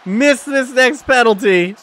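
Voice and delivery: loud, drawn-out penalty call; big, emphatic commentator delivery; excited play-by-play. Real, not acted. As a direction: open on a high shout, then stretch the words slowly.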